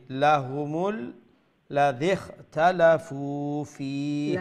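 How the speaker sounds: very slow "লাহুমুল লাযী", syllables held; corrective recitation demo. Shown as a demonstration. Teacher modelling the verse for the student, slow recitation. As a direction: draw out "ফী" at the end.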